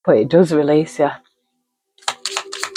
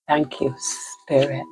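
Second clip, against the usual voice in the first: soft thanks; 2 semitones lower, 7 dB quieter, slower than usual. Real, not acted. Thanking spirit during card reading.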